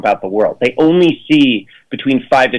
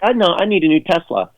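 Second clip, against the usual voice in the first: lightly voiced millennial, higher pitch; mock millennial; 6 semitones higher than usual. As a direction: put on a hint of a millennial, pitched up. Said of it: "the millennials will be like".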